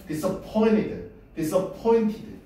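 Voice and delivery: disappointed의 point에 가장 센 강세; disappointed, dis는 두 번째, point는 제일 강하게. Shown as a demonstration. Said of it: "제일 강하게 발음할 거". (disappointed를 point에 힘주어)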